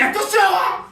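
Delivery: high-pitched warning. Acted. Comedian acts out a character warning another, high and loud. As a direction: call it out high and loud, short of the very top. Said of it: "c'est trop aigu".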